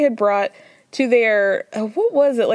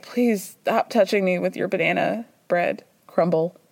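mock inner plea; 4 semitones lower than usual. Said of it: "Mary's just, like, dying inside".

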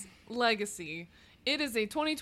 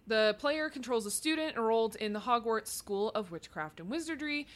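reading aloud. Acted. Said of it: "That was read from Wikipedia".

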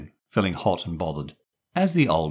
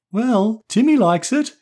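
put-on raised, light little-girl voice; girl's voice; 6 dB louder than usual. Anne chipping in about Timmy, light girl's voice. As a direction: play the cheerful younger sister.

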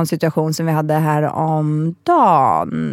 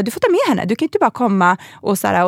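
a hint of an annoyed teacher scolding; stern teacher; 3 semitones higher than usual. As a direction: imitate a cross preschool teacher. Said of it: "hon bara".

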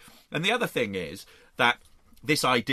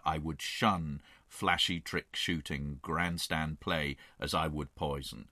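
light, lower mock American cowboy accent; Wyatt Earp American accent; 4 semitones lower than usual. Quoting a lawman to the host in a light American accent. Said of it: "I'm turning into an American accent here".

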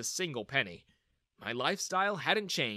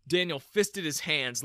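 plain reading voice

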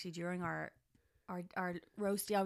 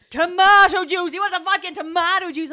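barmen correcting loudly; 10 semitones higher, 17 dB louder than usual. Retold or imitated. Barmen correcting her drink order, loud high shout. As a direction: shout the correction like it's obvious. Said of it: "They're like".

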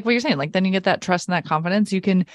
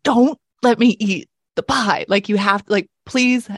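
emphatic plea, raised at the start; mock pleading; 3 semitones higher, slower than usual. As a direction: beg with drawn-out, insistent words. Begging sister to police her eating.

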